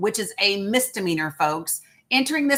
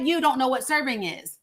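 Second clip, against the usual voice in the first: ordinary delivery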